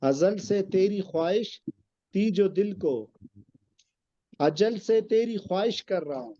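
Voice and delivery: poem recitation. Acted. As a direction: recite the couplet with weight. Recites qita verses.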